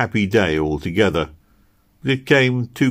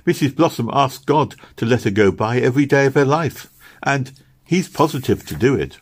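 lightly voiced little girl, insistent; higher, earnest child voice; earnest little Meg; 5 semitones higher than usual. Little girl assuring Kitty Posy will return, earnest. Meg's figure in dialogue.

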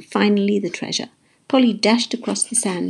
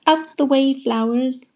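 raised, commanding call; megaphone shout; 6 semitones higher, slower than usual. A narrator's reading. Pete to the flowers blocking the boat, shouting. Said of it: "shouted Pete through a giant megaphone".

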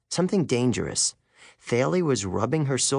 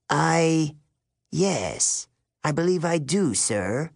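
higher, hesitant woman teacher; dazed; 4 semitones higher, slower than usual. A narrator's reading. Woman teacher answers her colleague, dazed and hesitant. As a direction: answer as if just woken from a trance. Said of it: "like someone had just woken her up from a trance".

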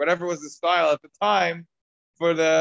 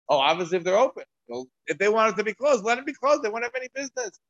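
much higher, dismissive officials' voice; smug official; 8 semitones higher than usual. Retold or imitated. Roman officials scoffing at the Jews' stores, high and mocking. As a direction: toss it off as arrogant rulers.

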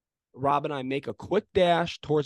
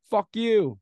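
retold angry retort; 7 semitones higher, 5 dB louder than usual. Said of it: "So I said".

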